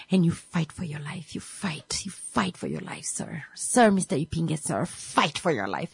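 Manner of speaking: whispered urging. Retold or imitated. Nurses urging quietly.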